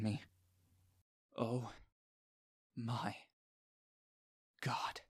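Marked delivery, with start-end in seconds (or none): 1.4-5.0 awed gasp, much softer. A narrator's reading. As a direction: breathe it out in awe. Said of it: "Ellie gasps".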